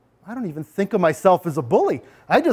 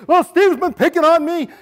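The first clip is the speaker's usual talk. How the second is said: high, louder complaint to the teacher; whiny victim; 9 semitones higher, 4 dB louder than usual. Retold or imitated. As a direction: tattle to the teacher.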